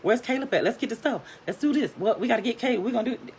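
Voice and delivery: put-on high, excited kids' chatter; eager boys, imitated. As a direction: imitate boys tumbling over each other with questions. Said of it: "the boys would always be like".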